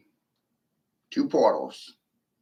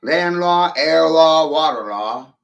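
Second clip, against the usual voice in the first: louder and higher on each law; rising shout; 5 semitones higher, 8 dB louder, slower than usual. Acted. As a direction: bark out the list, mounting. Listing laws in a rising rant.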